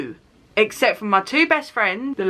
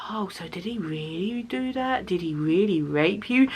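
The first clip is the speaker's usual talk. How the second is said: mock nosy question; 6 dB quieter than usual. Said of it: "you're not gonna go".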